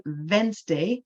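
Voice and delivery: Wednesday mispronounced, opening on a v sound; wrong pronunciation. Shown as a demonstration. Teacher showing learners a common slip, Wednesday mispronounced with a v. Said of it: "it's, it's wrong".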